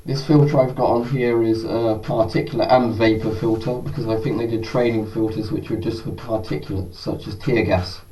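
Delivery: muffled behind a respirator; speaking from inside a gas mask; through a gas mask. Real, not acted. Wearing the mask for testing.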